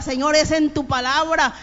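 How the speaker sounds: father's prayer with "palabra" pressed home; stress on palabra. Retold or imitated. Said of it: "recalcaba la palabra".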